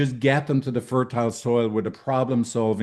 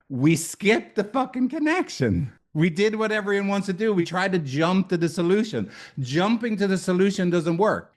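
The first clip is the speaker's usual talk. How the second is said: much higher, urgent realization; excited epiphany; 8 semitones higher than usual. Retold or imitated. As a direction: hit it like a sudden revelation. 4 a.m. realization in story.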